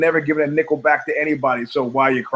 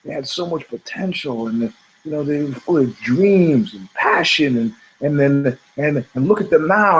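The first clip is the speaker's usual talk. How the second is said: philosophical lament. Retold or imitated. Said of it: "I would get philosophically put out".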